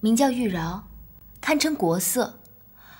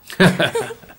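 burst of laughter; 2 semitones lower, 8 dB louder than usual. Real, not acted. Laughs at her own joke.

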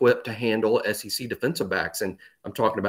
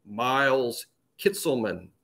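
Miles Kitselman said slowly, each name set apart; roster pronunciation voice; 3 dB quieter, slower than usual. Retold or imitated. Roster audio guide telling fans the name, slow pronunciation voice. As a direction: lightly imitate a recording sounding out Miles Kitselman. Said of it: "a voice say out loud".

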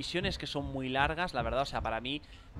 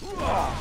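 high, loud wordless whoop; sudden high yell of awe; amazed whoop; 11 semitones higher, 6 dB louder than usual. Real, not acted. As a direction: cry out in amazement. Amazed cry during game action.

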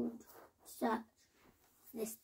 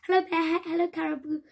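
higher and louder excited hello; joyful greeting; 5 semitones higher, 6 dB louder, much faster than usual. A narrator's reading. Hare and Fox greeting their friends in the snow, excitedly. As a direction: greet them bouncing with joy.

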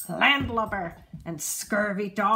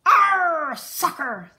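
louder, higher crew yell; 7 semitones higher, 9 dB louder, much slower than usual. A narrator's reading. Crew echoing the captain about soccer, loud yell. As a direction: shout it as the whole crew. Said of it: "the crew yelled".

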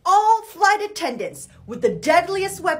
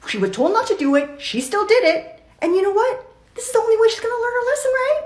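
lightly voiced devil on the shoulder; a hint of street-talking tempter; devil genie; 5 semitones higher than usual. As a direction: egg them on, rising higher toward the end. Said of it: "And the devil genie was like".

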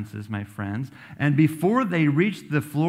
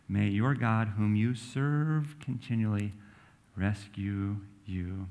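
tender blessing; 2 semitones lower, 3 dB quieter, slower than usual. Acted. King's blessing repeated.

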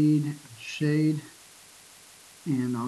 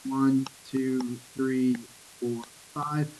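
counting out; much slower than usual. Shown as a demonstration. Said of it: "how many of those do you have per line".

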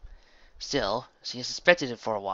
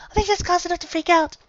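shouted retort; 10 dB louder than usual. A narrator's reading. Heated shouting argument.

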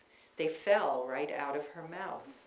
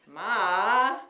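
exasperated; 4 semitones higher, 9 dB louder than usual. Retold or imitated. Exasperated reply to mother.

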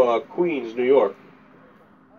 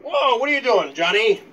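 higher, mock-startled shout of the name; startled call; 7 semitones higher, 3 dB louder than usual. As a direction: retell it like you just got hit in the head. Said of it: "And, like".

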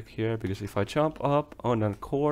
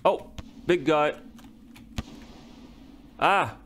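excited yells; 6 semitones higher, faster than usual. Real, not acted. Gamer yelling at monsters while dashing to safety. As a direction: shout them out while running for safety. Fleeing enemies in game.

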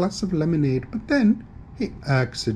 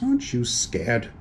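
spooky ghost voice. Acted. Ghost trying to scare.

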